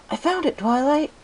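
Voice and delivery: put-on excited baby dragon shout; Spike's voice.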